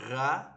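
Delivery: RA with a French R from the back of the throat. Shown as a demonstration. Teacher shows learners the French letter R, French R. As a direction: say "ra" with a French-style R. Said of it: "we can say the French letter R".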